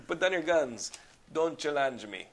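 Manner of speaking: put-on light Belgian accent, challenge as shallenge; half-hearted mock villain threat; Van Damme impression. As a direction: quote the villain with a hint of accent. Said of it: "That's how he said challenge in this movie".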